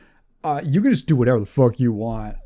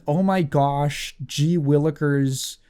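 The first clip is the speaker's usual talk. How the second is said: goody-goody voice; slower than usual. Retold or imitated. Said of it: "He is an ... guy".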